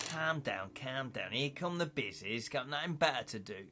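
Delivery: badly faked Liverpool accent; terrible put-on accent. Host mocking the bizzies, in a badly faked Liverpool accent. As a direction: have a rough go at a Scouse accent. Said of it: "That's terrible accent".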